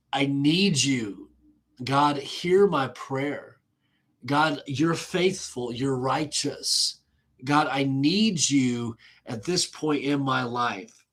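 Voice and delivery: slow, drawn-out plea to God; slow prayer. Acted. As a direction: voice an earnest prayer, stretching the words. David's prayer voiced by preacher.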